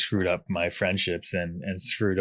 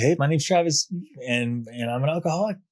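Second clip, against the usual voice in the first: higher, eager self-introduction; proud introduction; 6 semitones higher than usual. Retold or imitated. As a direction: announce it proudly to the room. Introducing himself at AA.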